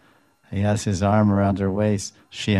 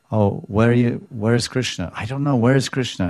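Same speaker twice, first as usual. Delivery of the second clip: desperate crying; 4 semitones higher than usual. Retold or imitated. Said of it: "Radharani's crying in desperation".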